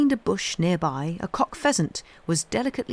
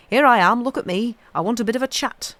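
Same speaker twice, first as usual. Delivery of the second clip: higher, louder, quicker chirpy robin voice; voicing the robin; 5 semitones higher, 5 dB louder, faster than usual. Dickon speaking for the robin calling to a friend, chirpy. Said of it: "That's same as saying".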